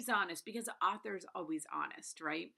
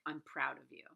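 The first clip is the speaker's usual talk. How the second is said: self-affirmation; 5 semitones lower than usual. Retold or imitated. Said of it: "say to myself".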